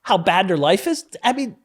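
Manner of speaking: loud, high, intense telling; fired up. Real, not acted. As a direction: pour it out with rising passion. Passionate telling of rock bottom.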